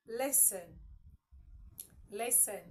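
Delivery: listen pronounced without any T; silent T in listen. Shown as a demonstration. Teacher asking learners to say it, listen with silent T. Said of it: "The T there is silent".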